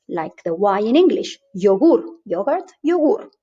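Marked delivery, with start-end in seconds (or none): 1.6-2.0 yogur with a Y glide; Spanish Y as in yes. Shown as a demonstration. Teacher showing learners the Y in yogur. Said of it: "it's pronounced like yes". 2.8-3.3 yogur with a Y glide, pitched higher; Spanish Y as in yes. Shown as a demonstration. Teacher repeating yogur with its Y as in yes. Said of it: "it's pronounced like yes".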